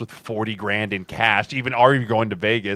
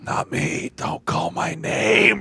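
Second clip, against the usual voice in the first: mock pleading hope; 6 semitones higher, much slower than usual.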